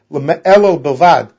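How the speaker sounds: "El Bavad" slow and deliberate, each word set apart; slowed-down citation of "El Bavad"; spelling out the wording. Shown as a demonstration. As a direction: linger on "El Bavad" as a quoted key phrase. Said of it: "this very interesting wording".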